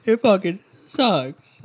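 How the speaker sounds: imitating old rage. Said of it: "Like, "I fucking hate".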